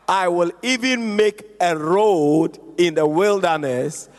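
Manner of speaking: scripture reading. Acted. Reads scripture aloud to congregation.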